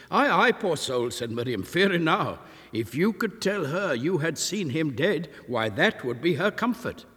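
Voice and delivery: lightly voiced kindly old woman; Miriam, old village woman. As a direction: speak up as a homely old landlady. Miriam's voice in narration.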